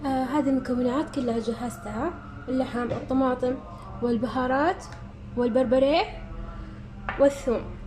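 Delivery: worn-out voice from asthma; voice giving out. Real, not acted. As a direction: strain through a fading voice. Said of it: "اليوم صوتي رايح من الربو". (صوت متعب ضعيف من الربو)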